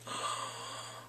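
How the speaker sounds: soft, drawn-out breathy gasp; swooning gasp. Retold or imitated. Reacting to a love confession, swooning gasp.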